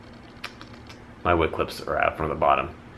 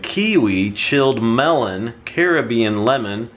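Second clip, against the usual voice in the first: slower, deliberate "chilled melon"; careful corrected reading; 4 semitones higher, 4 dB louder, slower than usual. Shown as a demonstration. Reviewer rereading the label to correct herself, slowly. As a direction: reread the list slowly and get "melon" right. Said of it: "Let's try that again".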